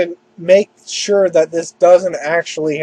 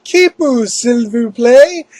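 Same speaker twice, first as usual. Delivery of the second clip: high, slow mock little-girl plea; a drawn-out, pleading little sister; childish pleading; 5 semitones higher, slower than usual. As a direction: beg sweetly like a small kid. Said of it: "Bonnie's all like".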